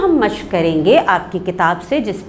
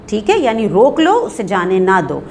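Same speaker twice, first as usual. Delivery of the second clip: ordinary talk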